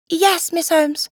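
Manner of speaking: high, slow schoolboy answer; reply dutifully in a high boy's voice; young boy, deferential. A narrator's reading.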